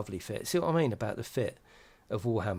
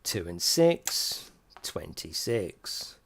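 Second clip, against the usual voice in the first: slow drawn-out number call; bingo caller; 5 semitones lower, much slower than usual. Acted. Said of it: "meant to be a bingo call".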